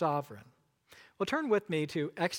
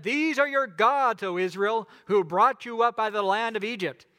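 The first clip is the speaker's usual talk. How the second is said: people hailing idol; 2 semitones higher, 6 dB louder than usual. Acted. People hail the golden calf.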